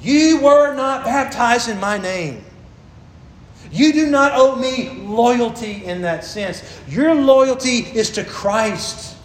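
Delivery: slow, deliberate stress on "not"; emphatic Paul. Acted. Preacher voicing Paul to the church, slow and emphatic. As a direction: press each word home like Paul insisting. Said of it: "highlighting as strongly as I can".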